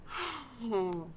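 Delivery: long, soft, falling sigh; weary sigh. Acted. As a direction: let out a slow, spent breath. Weary pause in monologue.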